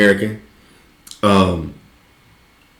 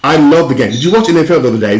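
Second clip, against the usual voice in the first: mock excitement; 6 semitones higher than usual. Fake Brit pretending to love football, in eager mock excitement. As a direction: gush about football like a fan.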